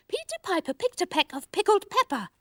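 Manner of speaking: crisp, exaggerated consonants; careful diction. Shown as a demonstration. Teaching Sweep with a tongue twister, crisp. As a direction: enunciate every p clearly. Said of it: "say after me once more".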